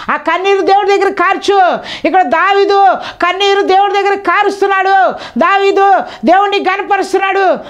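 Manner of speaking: fervent preaching. Acted. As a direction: urge them up high. Raised preaching.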